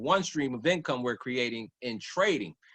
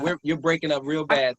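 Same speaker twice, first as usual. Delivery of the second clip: raised voice over a breaking call; louder, pushing through bad audio; shouting on bad phone line; 3 semitones higher, 5 dB louder than usual. Real, not acted. Bad connection, calling over it.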